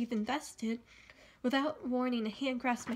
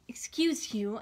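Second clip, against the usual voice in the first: sharply; slower than usual. Acted. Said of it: "I say sharply".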